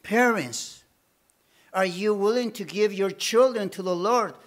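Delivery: ordinary delivery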